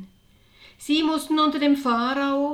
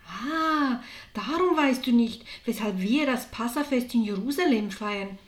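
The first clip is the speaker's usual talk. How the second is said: understanding; 2 semitones higher than usual. Acted. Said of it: "sagt Jakobus verständnisvoll".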